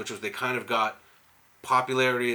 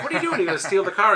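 much higher and louder, challenging him; shrill confrontation; 8 semitones higher, 6 dB louder, faster than usual. Retold or imitated. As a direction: confront the car thief, voice way up. She confronts the thief.

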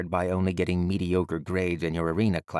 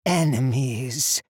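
despairing; 5 semitones higher, 5 dB louder, much slower than usual. A narrator's reading. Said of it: "distinct tones of despair".

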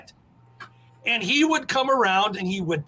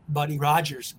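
strut the name out deep; strutting mimic; 6 semitones lower than usual. The speaker imitating Doctor X strutting.

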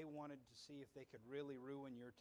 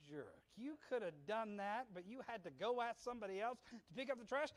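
inner grumble; 7 semitones higher, 4 dB louder than usual. Retold or imitated. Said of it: "inward, I was like".

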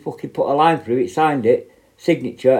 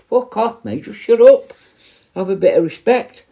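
high-pitched exasperated telling-off; acted angry retort; 8 semitones higher than usual. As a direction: snap back in a retold row, voice raised high. Acted quarrel with a shouter.

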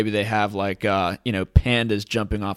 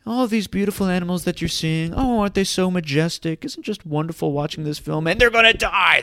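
much higher, gushing mock British narrator; British documentary narrator; 9 semitones higher, 3 dB louder than usual. Parodying nature films to viewers, high gushing British narrator. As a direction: swoon over the animals in a posh British documentary voice, then shriek they'll die. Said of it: "in that exquisite British voice".

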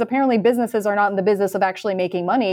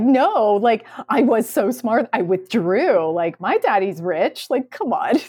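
half-hearted mock of a spoiled heiress; imitating Anna Delvey; 3 semitones higher, slower than usual. Host mocks the post as Anna Delvey, lightly spoiled whine. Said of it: "sounds a lot like Anna Delvey".

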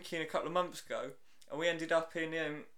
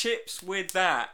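mock tourist; 2 semitones higher, 5 dB louder, much slower than usual. Mocking tourists ordering abroad.

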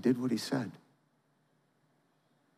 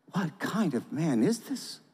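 anxious wonder; 2 semitones higher, slower than usual. Acted. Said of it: "they asked themselves anxiously".

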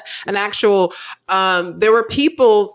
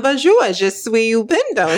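retold French greeting; 3 semitones higher than usual. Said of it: "I said".

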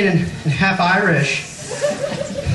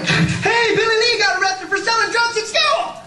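put-on excited kid. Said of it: "I'm like".

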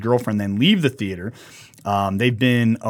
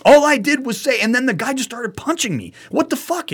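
much higher, whining disbelief; bewildered victim; 12 semitones higher than usual. Retold or imitated. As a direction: play the dazed guy who just got punched. Stunned victim replays the attack.

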